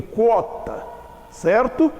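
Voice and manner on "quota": quota as "kwó-ta"; quota with u sounded. Shown as a demonstration. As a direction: glide through the u in quota. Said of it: "Quando eu escrevo assim com Q U, eu digo".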